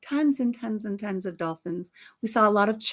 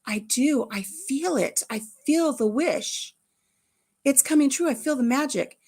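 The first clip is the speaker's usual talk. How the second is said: slightly raised, playful conviction; mock believer's fervor; 5 semitones higher than usual. Grandpa playing along with the nickel wish, mildly fervent. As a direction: play along as if feeling magic.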